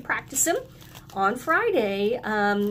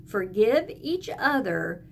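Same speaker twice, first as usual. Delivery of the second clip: slow recitation; slower than usual. Shown as a demonstration. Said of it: "Can you say that with me?".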